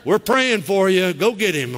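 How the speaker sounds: high, slow, sly encouragement; mock deacon. Deacons sending the pastor to face trouble, high sly voice. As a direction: push the pastor forward with fake support. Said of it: "some deacons I've met".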